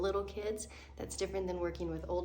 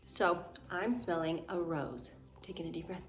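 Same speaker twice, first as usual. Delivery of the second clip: calm breathing demo; 2 semitones lower than usual. Shown as a demonstration. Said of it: "what are we smelling".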